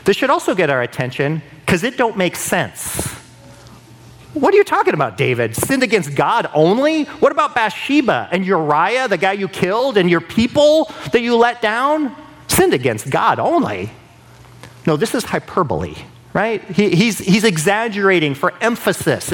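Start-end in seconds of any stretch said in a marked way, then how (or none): 4.3-13.9 starts much higher in disbelief; incredulous objection. Retold or imitated. Skeptic questioning David about Bathsheba, incredulous.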